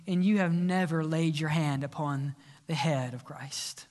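softening preacher's altar call; earnest closing sermon. Acted.

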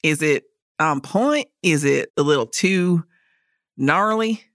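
playful Southern accent demo. Shown as a demonstration. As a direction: try out a light Southern accent. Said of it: "my Southern accent".

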